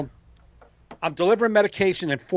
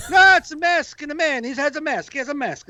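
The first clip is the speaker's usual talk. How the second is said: put-on father correcting kid; 8 semitones higher than usual. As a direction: play the nervous dad hushing his child. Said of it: "And the father's like".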